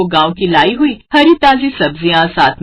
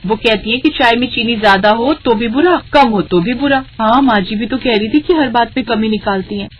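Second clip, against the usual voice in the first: higher, lightly voiced daughter-in-law; a young wife's worried reply, pitched up; young bahu; 3 semitones higher than usual. Bahu tells mother-in-law what she heard, higher voice. Bahus talk in kitchen.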